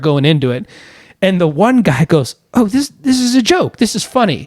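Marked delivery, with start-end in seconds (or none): 2.5-4.5 high-pitched incredulous imitation; disbelieving prank victim. One guy deciding the call is a prank, high and incredulous. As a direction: play someone catching on to a joke.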